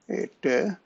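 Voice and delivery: halting, stumbling over words; stammering. Real, not acted. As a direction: trip over the start of the sentence. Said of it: "I don't know why I'm again stammering so much".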